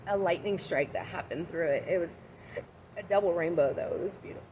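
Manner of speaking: talking through hiccups; hiccuping between words. Real, not acted. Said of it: "Sorry, I got the hiccups now".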